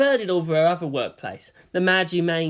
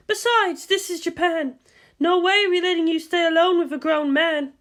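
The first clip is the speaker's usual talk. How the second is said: higher woman's voice, patient; guardian explaining; 12 semitones higher than usual. A narrator's reading. Misato explains orders to Asuka, higher and firm. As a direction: lay out the orders firmly.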